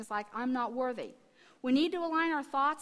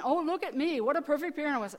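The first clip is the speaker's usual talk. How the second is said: higher, louder mock self-praise; mock boasting; 3 semitones higher, 5 dB louder, faster than usual. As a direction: play a lightly hammed-up show-off. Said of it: "I'm not saying".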